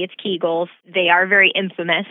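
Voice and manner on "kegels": Kegels said as KEE-guls; long EE in the first syllable of Kegels; correct pronunciation. Shown as a demonstration. Doctor confirming the host's pronunciation, Kegels as KEE-guls. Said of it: "you are saying it correctly".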